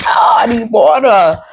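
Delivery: mock strangled, airless croak; blocked-throat croak. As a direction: act out a throat too blocked to talk. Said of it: "you can't speak, you can't talk".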